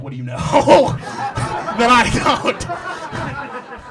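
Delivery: high, very slow, laughing mock question; mock suspicion. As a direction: stretch it out, squeaky and suspicious. Retold question to mom.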